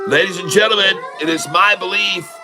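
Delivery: playful announcer hype over the music; mock announcer. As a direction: address the crowd like an arena host. Announces stock breakout to viewers.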